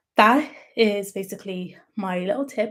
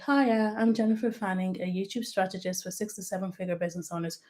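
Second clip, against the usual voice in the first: flat, fading, read-off-the-page delivery, softer; monotone script reading; 6 dB quieter than usual. Shown as a demonstration. YouTube coach demos an obvious monotone script read. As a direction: drone it out like reading a teleprompter. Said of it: "But if I was to just say ... You know that I'm reading then".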